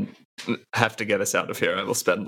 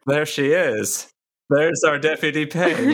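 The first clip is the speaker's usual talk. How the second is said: proud cheer; 4 semitones higher, slower than usual. Acted. Cheering deputy's recovery.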